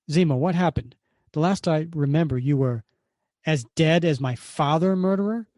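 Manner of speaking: mildly furious accusation; accusing villain. Acted. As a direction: hurl the accusation at him. Zemo accuses Cap.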